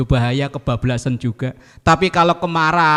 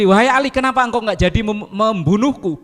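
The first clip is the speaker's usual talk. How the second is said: urgent enemy; 7 semitones higher than usual. Pretend. Fallen enemy questions Ali.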